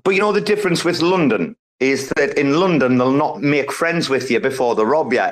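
ordinary talk, nothing marked

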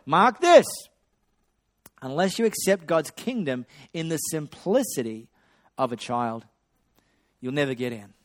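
stern command easing down; irate Jesus. Acted. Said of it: "You can do it".

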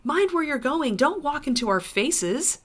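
high-pitched grumpy scolding; surly. A narrator's reading. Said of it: "in a surly voice".

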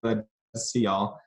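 lightly voiced cheerful cartoon mouse; a hint of a perky cartoon host; Mickey Mouse voice. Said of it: "chuckled Mickey".

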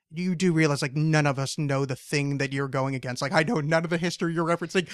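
dry, matter-of-fact retort; understated deadpan quote of oneself. Retold or imitated. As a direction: state it with no excitement. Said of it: "in deadpan, I was like".

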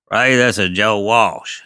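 a hint of Joe Walsh announcing himself on the phone; imitating a caller.

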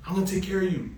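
lightly imitated friendly barber, pitched high; sweet reassurance. Sweet barber reassuring his new customer, lightly imitated. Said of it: "Sweet guy".

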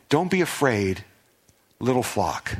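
gentle shepherd comforting his flock; kind, tender. Pretend. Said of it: "there's a kindness here".

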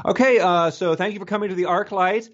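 a hint of a bubbly usher; perky usher voice. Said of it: "she was like".

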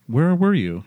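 mock accusing question; accusatory. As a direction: lightly demand where she was. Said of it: "very accusatory".

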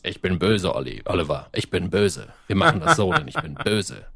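lightly voiced cartoon villain, low; half-hearted low villain parody; mock villain. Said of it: "als Bösewicht dieses".

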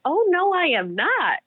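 acted-out insistent contradiction; retold firm denial. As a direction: push back hard on the caller. Retold argument with the caller.

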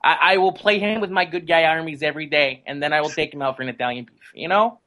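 weak attempt at a Chicago accent; a halfhearted Chicago accent. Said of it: "my poor attempt in, at a Chicago accent".

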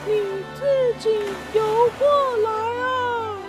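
high bird voice, slow and deliberate; word by word. Acted. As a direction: spell each word out to make him understand. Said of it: "一个字一个字地说清楚".

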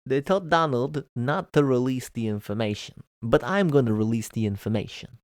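light, hammed-up Brooklyn Jewish accent; attempted Israeli accent that comes out Brooklyn; put-on accent. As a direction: quote the professor in a bad mock Brooklyn Jewish accent. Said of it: "why did you do the accent".

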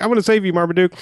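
hammed-up heroic shout; mock heroic cry. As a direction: call out like a hero diving in.

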